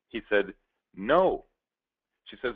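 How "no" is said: a short loud no; loud flat refusal to a plea; curt loud refusal. Acted. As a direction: bark it out to shut her down. Mister D flatly refuses.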